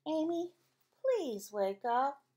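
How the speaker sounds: slow, sweet coaxing mom; very nicely. Acted. Mother at Amy's bedside asking very nicely. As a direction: coax her gently awake. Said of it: "She said very nicely".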